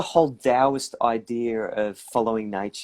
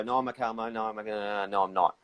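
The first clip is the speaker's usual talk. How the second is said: bottled-up denial; 2 semitones lower, 8 dB quieter, faster than usual. Retold or imitated. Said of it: "or you bottle it up and go".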